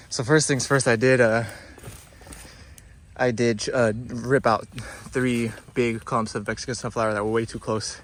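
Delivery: out of breath, puffing between words; heavy breathing. Real, not acted. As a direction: talk while catching your breath. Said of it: "excuse the heavy breathing".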